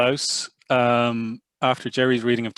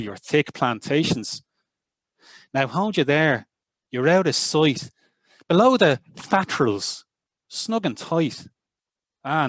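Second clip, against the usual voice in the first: put-on Burns recited in a Northside Dublin accent, raised and lively, with touches of Scots. Reading Burns to the Burns Night gathering in a Northside Dublin accent. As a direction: give the poem a Dublin lilt and let the Scots words slip in. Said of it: "it's gonna be a little bit of Northside Dublin".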